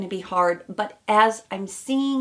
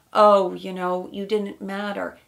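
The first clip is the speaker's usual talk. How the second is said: mock brush-off, louder on the Oh; dismissive; 5 dB louder than usual. Imagined dismissive ex brushing her off, mock dismissive. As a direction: imitate someone waving off an ex. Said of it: "He's not dismissive and saying".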